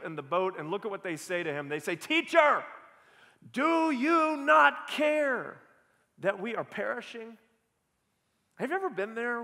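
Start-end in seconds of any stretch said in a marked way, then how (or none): 1.9-7.4 high, loud desperate cry, slow on "not care"; panicked plea. Acted. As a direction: cry out to the sleeping teacher in panic. Panicked disciples wake Jesus.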